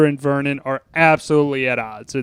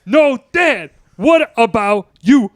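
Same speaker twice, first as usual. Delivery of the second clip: pleading son; 7 semitones higher, 4 dB louder, slower than usual. Retold or imitated. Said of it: "Oh, mine? It's real easy".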